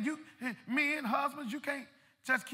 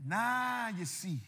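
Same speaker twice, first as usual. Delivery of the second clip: God's calm voice; 5 semitones lower, 8 dB quieter than usual. Acted. Preacher voicing God answering the humbled man, low and soft. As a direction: lower and much softer, settled and knowing. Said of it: "when God's saying".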